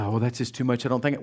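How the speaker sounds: low, soft, dismissive mutter; mock a reluctant listener under your breath; doubtful objection.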